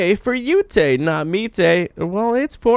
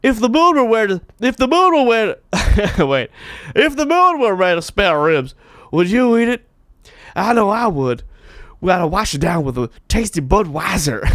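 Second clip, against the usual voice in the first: Harry Carey; faster than usual. Retold or imitated. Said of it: "I sound like I'm doing a Harry Carey".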